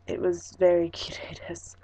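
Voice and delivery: "kirei desu" whispered in Japanese; Japanese word kirei. Shown as a demonstration. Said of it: "the word for beautiful in Japanese is kirei".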